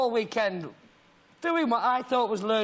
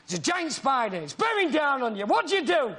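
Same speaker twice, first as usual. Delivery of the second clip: imitated director, building in pitch; mock-urgent audition prompt; 3 semitones higher than usual. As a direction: build the scene urgently for an actor. Imitates director urging an audition scene.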